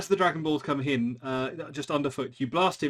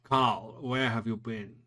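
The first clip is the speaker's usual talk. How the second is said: Hans Gruber; slower than usual. Acted. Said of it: "it's Hans Gruber".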